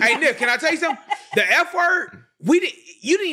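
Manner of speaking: words breaking into laughs; laughing. Real, not acted. Telling Nick a story while laughing.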